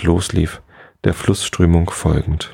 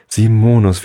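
surprised call; 4 semitones higher, 4 dB louder than usual. Acted. Calls back surprised.

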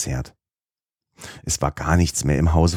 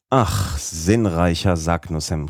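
exclaiming; slower than usual. Acted. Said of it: "rief er aus".

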